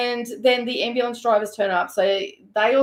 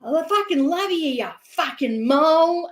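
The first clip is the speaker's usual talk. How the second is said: calling out; 6 semitones higher than usual. Retold or imitated. Ian to Dawn as he's driven off, mock high holler. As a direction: holler affection roughly while being driven away. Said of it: "as he's driving off up the street".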